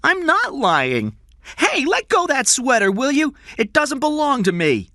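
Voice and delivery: put-on a young boy insisting on his name, nervous; scared boy Jeff. Boy protests to kidnapper.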